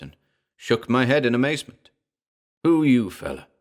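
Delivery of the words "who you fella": louder, higher ape demanding to know; a touch of a stern gorilla. A narrator's reading. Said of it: "the ape demanded".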